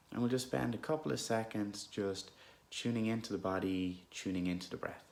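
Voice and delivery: unhurried, calm meditation guidance with long pauses; guided meditation. Real, not acted. Guide leading listeners through an anxious moment, calm meditation voice. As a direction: gently lead listeners inward, leaving space between phrases.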